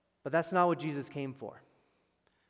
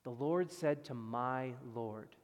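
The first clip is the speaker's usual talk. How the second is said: slow quote; slower than usual. Shown as a demonstration. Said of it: "quoting Psalm 110 slowly".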